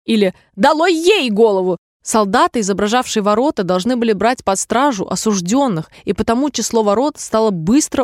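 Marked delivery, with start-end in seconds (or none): 0.5-1.8 higher-pitched angry royal order; shouted command. A narrator's reading. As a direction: cry out a sentence as a cross queen. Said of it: "ссорилась с другими игроками и кричала". (сердитый выкрик королевы)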